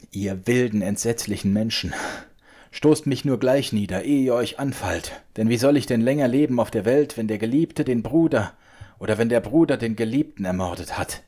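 high, loud, desperate sobbing cry; schluchzend laut rufend. A narrator's reading. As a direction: throw yourself between the two duelling men. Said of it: "Schluchzend rief sie laut". (verzweifelt schluchzender Ruf, viel höher und lauter)

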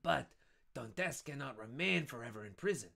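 high, loud sly voice; scheming Danglars. Acted. Danglars proposing to denounce Dantes, high sly voice. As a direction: savour the plot to denounce.

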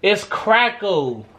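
"crackle" said slowly with an l ending; slow "It's crackle", l sound at the end. Shown as a demonstration. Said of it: "It's not a cracker".

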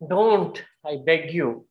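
soft, breathy begging in fear; frightened pleading. Shown as a demonstration. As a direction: plead for your life, hushed. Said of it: "it's Bhayanaka".

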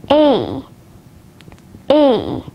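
gliding "a" as in wait; isolated "a", the vowel of rate; diphthong demo. Shown as a demonstration. Teacher showing learners diphthongs, "a" as a full glide. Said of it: "at the diphthongs".

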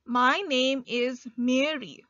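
slow, deliberate read; slow dictation read. Shown as a demonstration. Teacher reading a sentence slowly to learners, deliberate. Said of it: "The next example is".

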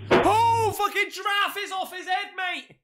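very high-pitched, excited exclamation; shocked outburst. Real, not acted. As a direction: shoot the voice right up in shock.

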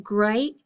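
GREAT with a pause before a crisp separate T; GREAT broken before its final T; final T split off. Shown as a demonstration. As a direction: say GREAT as "gray", pause, then a released T. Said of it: "it's the t sound".

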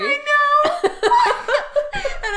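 high laughing answer. Real, not acted. Laughs at Toy Story joke.

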